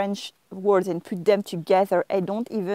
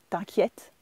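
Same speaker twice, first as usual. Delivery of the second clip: reassuring dismissal; 3 semitones lower, 4 dB quieter than usual. Shown as a demonstration. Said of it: "You can hear it in my voice".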